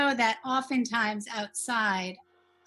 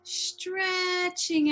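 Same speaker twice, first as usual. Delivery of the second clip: STRETCHING with a long drawn-out first vowel; stretched-out word; 6 semitones higher than usual. Shown as a demonstration. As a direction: pull STRETCHING out like a rubber band. Teacher acts out stretching a word.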